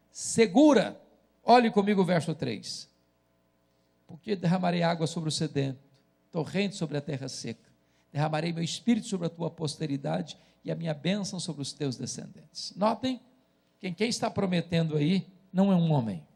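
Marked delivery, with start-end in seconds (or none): 4.1-12.7 lower, softer read-aloud, settling at the end; scripture reading. Acted. Preacher reading verse three to the congregation, subdued scripture reading. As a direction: read the verse soberly, dropping in pitch and volume.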